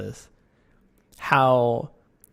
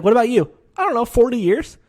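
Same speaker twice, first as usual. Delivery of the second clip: mock casual veteran; 11 semitones higher, 7 dB louder than usual. Coach asked his own experience.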